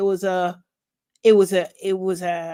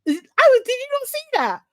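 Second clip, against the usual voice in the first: high incredulous squeal; 4 dB louder than usual. Real, not acted. To her co-host, a high incredulous squeal. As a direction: ask it in total disbelief. Shocked recap of the scene.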